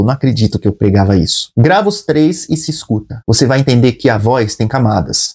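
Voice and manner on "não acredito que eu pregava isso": a touch of dry irony, pitched low; mock disbelief at your own old sermons; ex-pastor lightly sneering at what he preached; ironic. Shown as a demonstration. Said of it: "lê o texto com ironia".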